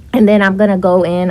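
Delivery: breathless and hurried; rushing words while out of breath. Real, not acted. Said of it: "I'm out of breath".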